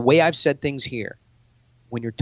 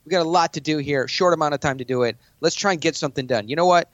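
higher and pushy, jabbing questions; aggressive challenge; 4 semitones higher than usual. Shown as a demonstration. To a billionaire in a pitch meeting, a pushy challenge. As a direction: corner them and demand an answer. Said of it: "pointing at a billionaire".

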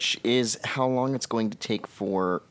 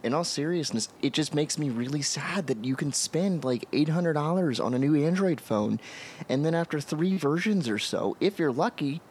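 earnest, worked-up complaint in a higher pitch; impassioned, pitch riding high to the last point; passionate; 5 semitones higher than usual. Real, not acted. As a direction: plead the case with real feeling. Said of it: "Not that I'm passionate or anything".

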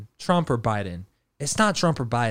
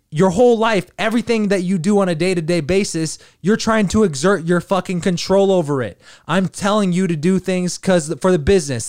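lecturing mushroom voice; 4 semitones higher than usual. Retold or imitated.

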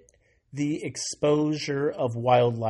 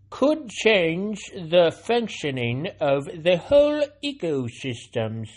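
mock scientist voice; 4 semitones higher, 4 dB louder, slower than usual. Reading a scientist's quote aloud.

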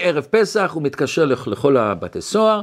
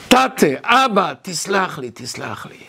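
retold tearful plea; 3 semitones higher, slower than usual. Weeping man begging his father's forgiveness, retold tearful plea. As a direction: imitate begging forgiveness, fading to a hush. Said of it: "ופחץ בכי".

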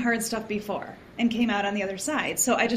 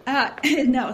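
choking; 2 semitones higher, 4 dB louder than usual. Real, not acted. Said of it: "sorry, I was choking".

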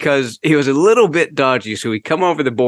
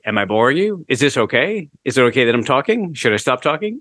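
polite Canadian; 3 semitones higher than usual. Retold or imitated. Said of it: "the Canadian courtesy of".

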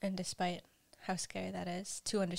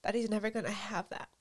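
crying. Real, not acted.

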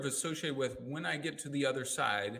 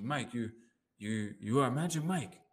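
lightly put-on Asian accent; mock Asian accent, badly done; 2 semitones higher than usual. Client praising her coach after a session, bad Asian accent. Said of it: "I'm doing a bad Asian voice".

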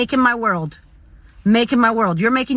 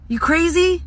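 ordinary talk

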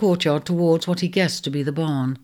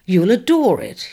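indignant; 4 semitones higher, 4 dB louder than usual. Acted. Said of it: "he said indignantly".

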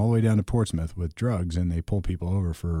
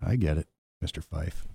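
sarcastic mutter; 4 semitones lower, 4 dB quieter than usual. Retold or imitated. Sarcastic aside to the cop.

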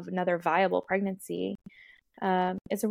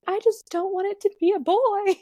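higher, louder, a mock-whiny wail; retold tearful plea; 12 semitones higher, 4 dB louder than usual. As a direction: replay the panicked plea as a half-laughing wail. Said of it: "But I just started bawling".

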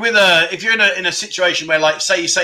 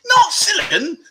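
laughing disbelief; 13 semitones higher than usual. Real, not acted. Amused at a misheard word.

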